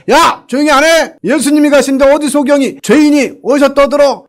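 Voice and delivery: high, sharp scolding rebuke; scolding crowd. Retold or imitated. Crowd scolds the blind man, high sharp rebuke. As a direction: snap at him to shut up. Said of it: "주변 사람들이 막 뭐라 하는 거예요".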